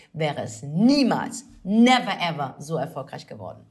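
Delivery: grand, drawn-out show introduction; announcer introduction. Acted. Host hyping the star guest to listeners, grand announcer style. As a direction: build up the star guest with emphatic pauses.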